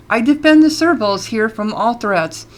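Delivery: "all" leaned on with extra weight; stress on all. A narrator's reading. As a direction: put extra emphasis on "all". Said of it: "She puts extra emphasis on the all".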